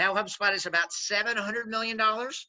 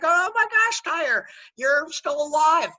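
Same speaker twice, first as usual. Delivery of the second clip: much higher and louder, slow amazed gasp; mock astonishment; 10 semitones higher, 7 dB louder, slower than usual. Old coworkers shocked he's alive, much higher and louder. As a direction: play the old colleagues stunned he still lives. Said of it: "They're like".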